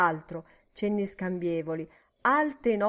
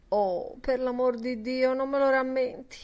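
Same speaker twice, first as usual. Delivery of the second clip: higher-pitched horrified pleading; grimacing plea; 5 semitones higher than usual. A narrator's reading. Miss Kennedy begging her friend not to remind her, pleading. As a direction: beg not to be reminded, with distaste. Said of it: "fece una smorfia e pregò".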